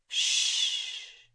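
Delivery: breathy whispered shh to keep quiet; whispered hush. Acted. Thomas hushing Kira on the stairs, whispered. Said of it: "Thomas whispered".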